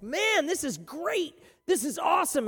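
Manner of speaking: eager follower. Acted. Preacher voicing an eager crowd member, gushing. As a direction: gush like a starstruck follower.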